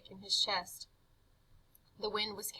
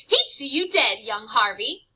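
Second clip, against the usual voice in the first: sly tempter; 12 dB louder than usual. Acted. Jive tempting Harvey.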